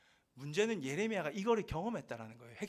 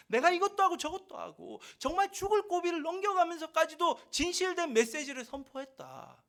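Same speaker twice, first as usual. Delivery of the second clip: raw complaint to God; 4 semitones higher than usual. Retold or imitated. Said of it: "라고 이제 막 적나라하게 얘기를 하는 거예요".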